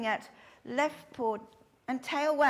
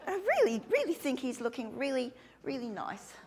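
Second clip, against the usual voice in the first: giggly, high over-the-top compliment; laughing gush; 4 semitones higher than usual. Shown as a demonstration. Instructor demonstrating praise for a handler, giggling gush. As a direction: gush through a laugh, leaning on each really. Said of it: "just go up to them and say".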